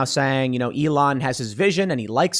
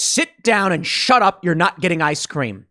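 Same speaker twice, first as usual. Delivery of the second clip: angry dad; 2 semitones higher than usual. Retold or imitated. Angry dad silencing whiny kids, stern mock order. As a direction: lay down the law like a fed-up dad. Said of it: "like an angry dad".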